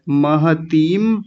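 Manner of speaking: आचार्य महतीम very slow, syllable by syllable; drawn-out model. Shown as a demonstration. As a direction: stretch out महतीम for the class. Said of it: "बड़ी ई की मात्रा".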